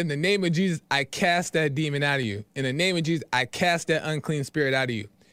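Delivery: plain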